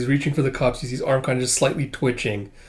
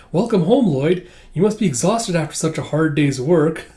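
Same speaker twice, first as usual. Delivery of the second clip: cheery welcome; 3 semitones higher than usual. Retold or imitated. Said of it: "looking all happy and smiling".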